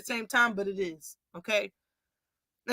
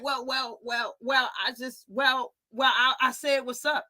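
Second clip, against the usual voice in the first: mock nervous stammer, quieter; stuttering backdown; 4 dB quieter than usual. A hint of a stammering retreat when confronted. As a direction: stammer and back down like you got caught. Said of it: "Bud started stuttering".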